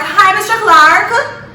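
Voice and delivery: high, drawn-out mock-British greeting; put-on British accent. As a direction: fake a slow British phone voice, pitched high. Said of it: "put on a British accent on the phone".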